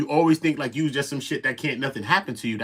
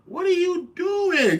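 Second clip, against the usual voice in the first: slow, high shouted disbelief; 3 dB louder, much slower than usual. Retold or imitated. Reacting to Loose on Clubhouse, slow shouted disbelief. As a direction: drag out a stunned shout.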